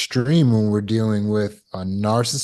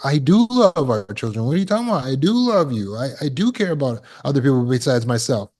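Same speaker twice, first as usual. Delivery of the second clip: defensive pleading; 3 semitones higher, faster than usual. Retold or imitated. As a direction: scramble to defend yourself. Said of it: "supposed to be defending yourself".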